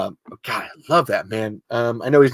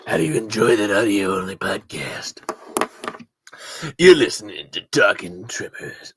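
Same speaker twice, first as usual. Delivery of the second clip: whispered intro; 3 semitones lower than usual. Pretend.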